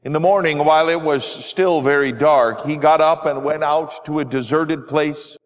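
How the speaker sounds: measured, formal reading of the gospel; scripture reading. Acted. Pastor reading the gospel aloud to the congregation, formal and measured. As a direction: read the lesson steadily to the congregation.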